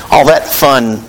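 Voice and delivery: sarcastic. Acted. Preacher mocking baby food to the church, slow and sarcastic. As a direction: drawl it slowly, dripping with sarcasm. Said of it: "he says in his most sarcastic voice".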